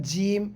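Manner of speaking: জিম said firm and hard; demonstrating a hard জিম; hard jim. Shown as a demonstration. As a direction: pronounce জিম with a strong, firm sound. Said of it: "জিমটা শক্ত".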